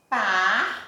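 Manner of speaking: PARTILHA split into par, ti, lha with long pauses; sílaba por sílaba. Shown as a demonstration. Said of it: "que eu digo assim". ("partilha" pausado, separando par, ti, lha)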